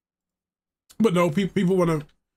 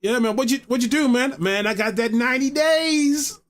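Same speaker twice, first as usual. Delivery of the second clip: mock inmate chat; 5 semitones higher than usual. Acts out a prison yard exchange.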